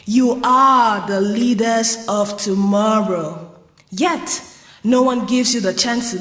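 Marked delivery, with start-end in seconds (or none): 0.0-3.6 slow, drawn-out imitation of speechmaking; mock lofty speech. Young job seeker quoting leaders' lofty speeches, slow mock oratory. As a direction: imitate a politician's lofty promise, stretching the words. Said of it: "they tell us in lofty speeches".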